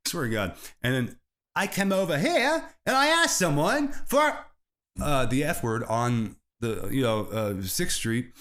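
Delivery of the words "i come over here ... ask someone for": put-on English accent. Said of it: "then I break the English accent".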